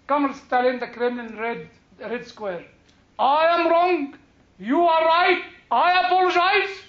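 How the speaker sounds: sarcastic, gloating read of the apology, rising to the end; mocking triumphant reading. Shown as a demonstration. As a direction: read the confession out as a taunt, building up. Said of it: "in the way that Trotsky wanted it to be read".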